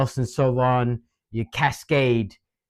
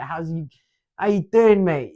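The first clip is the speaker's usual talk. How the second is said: put-on local English accent; 3 semitones higher than usual. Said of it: "I've got the accent from here".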